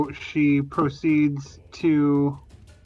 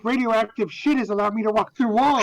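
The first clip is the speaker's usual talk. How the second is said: laughing; 5 semitones higher than usual. Real, not acted. Joking in-character line while laughing.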